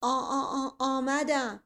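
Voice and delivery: stammering with a sob; muffled broken voice. Acted. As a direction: choke the words out in fear. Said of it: "با صدای خفه و کلمات بریده".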